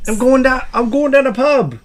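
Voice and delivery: mock-British lad; British accent. Shown as a demonstration. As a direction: demo a British pub-goer. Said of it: "all gonna talk in a British accent".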